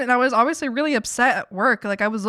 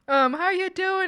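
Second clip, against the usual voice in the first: excited greeting; 7 semitones higher, 4 dB louder than usual. Retold or imitated. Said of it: "She's like".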